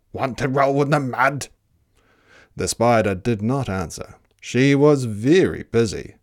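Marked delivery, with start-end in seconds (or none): 0.1-1.5 pig voice for a storybook; grunting pig. Acted. Pig inviting the spider into mud, grunting. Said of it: "grunted the pig".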